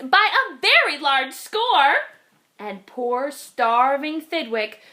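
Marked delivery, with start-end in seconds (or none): 0.0-1.9 gleeful scream. Acted. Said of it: "screamed the guests".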